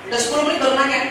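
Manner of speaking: low, soft, unbothered question; cool. Acted. A husband asking his wife about the kids, cool. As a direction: ask coolly, holding back any eagerness. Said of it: "Kan keren".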